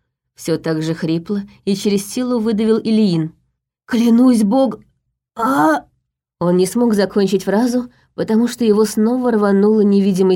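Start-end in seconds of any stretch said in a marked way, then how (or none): 3.9-5.9 cut-off oath. A narrator's reading. Choked off mid-oath.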